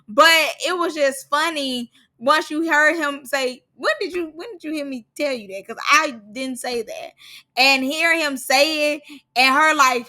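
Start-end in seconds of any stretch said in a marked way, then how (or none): 3.8-5.7 put-on a lighter, quicker African accent on the cameraman's line; African accent impression. Vlogger replays the cameraman's line with a hint of African accent. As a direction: echo the cameraman, hinting at his African accent. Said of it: "once you hear his accent".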